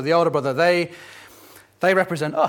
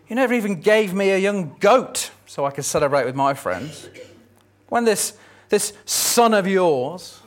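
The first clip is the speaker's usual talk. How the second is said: high, loud, bitter complaint; aggrieved son; 3 semitones higher, 4 dB louder than usual. Acted. Older son protesting to his father, aggrieved. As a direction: let years of resentment boil over.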